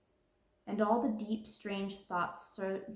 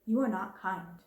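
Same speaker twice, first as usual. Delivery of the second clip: fierce. Acted. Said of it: "unchildishly fierce way".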